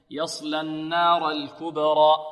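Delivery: slow يصلى النار الكبرى with held ghunna on النار; nasalized nun. Shown as a demonstration. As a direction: hum the doubled نون in النار. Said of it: "والنون فيها غنة".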